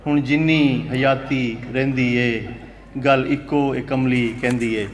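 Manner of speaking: slow, measured verse with held syllables; poetry recital. Acted. Poet reciting Punjabi verse to a mushaira audience, slow recital. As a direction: declaim each phrase slowly, pausing between them.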